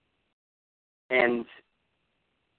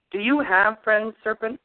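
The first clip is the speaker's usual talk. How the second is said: black dog voice; 7 semitones higher than usual. Acted. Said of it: "interrupted the black dog".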